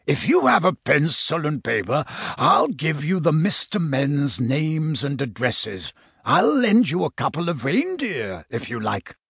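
lightly voiced hearty old uncle; a hint of jolly Santa voice; Santa Claus. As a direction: offer help as a kindly, rumbly Santa. Santa on the telephone.

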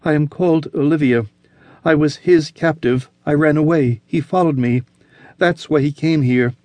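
frightened woman. Acted. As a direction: rush your plea in terror. Olivia frightened, pleading.

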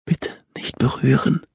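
high, thin, frail voice; weak plea. A narrator's reading. Injured girl pleads weakly.

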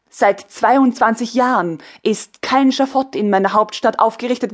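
commanding empress. Acted. Empress commanding her ministers, firm and loud. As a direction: issue orders like a ruler.

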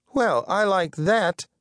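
high, offended snap; snapping. A narrator's reading. Periwinkle the insulted mirror, high-pitched snapping. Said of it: "snapped Periwinkle".

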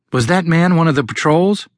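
breathless high question; out of breath. A narrator's reading. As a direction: gasp it out after running. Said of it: "as she gasped for breath".

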